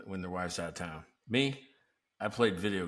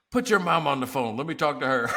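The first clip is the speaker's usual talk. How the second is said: stern parent tone; 4 semitones higher, 5 dB louder than usual. Retold or imitated. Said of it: "I told the kid".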